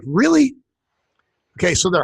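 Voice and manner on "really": high, incredulous questioning; retold disbelief. Host recalling the part about the shoes, retold disbelief. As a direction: act out your doubtful reaction, pitched way up. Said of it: "I was like".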